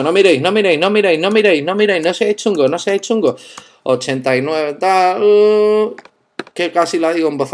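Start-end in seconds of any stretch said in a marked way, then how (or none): 0.0-3.4 higher, louder teasing plea not to peek; playful don't look. Real, not acted. Typing his password, teasing viewers not to peek, playful plea. 5.2-6.0 sudden high, loud startled yelp. Real, not acted. Nearly saying his password aloud, sudden startled uh.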